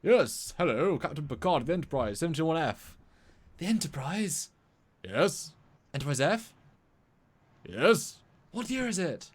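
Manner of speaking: high, swooping put-on accent, hammed up; mock Picard-scene accent. Captain hails the time traveller from the future, hammed-up accent. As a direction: play both sides in an exaggerated put-on accent. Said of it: "I can do an accent 'cause I've met him".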